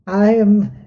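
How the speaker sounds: slow, deliberate title; measured, stately self-introduction; formal introduction. Acted. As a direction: announce the full name with ceremony. Elder announces own title.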